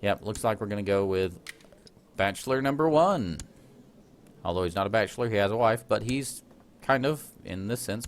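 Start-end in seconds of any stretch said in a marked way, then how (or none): 2.1-3.4 lightly voiced game-show host, rising to the punchline. Gamer presenting his heir as on a dating show, mild host voice.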